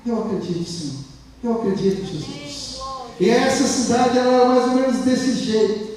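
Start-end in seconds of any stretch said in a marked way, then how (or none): 0.0-2.8 softened prayer of a struggling believer; very soft voice. Acted. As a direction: murmur faith under the breath. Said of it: "ele continua falando bem baixinho".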